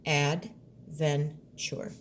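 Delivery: "adventure" very slow, beat by beat; "adventure" at a slow pace; slow syllables. Shown as a demonstration. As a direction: stretch "adventure" right out. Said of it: "We're leaving that chur".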